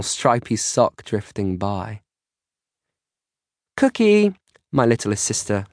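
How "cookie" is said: put-on high-pitched, loud child's yell. A narrator's reading. Little sister calling from the living room, yelling. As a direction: call out shrilly for big sister. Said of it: "yells from the living room".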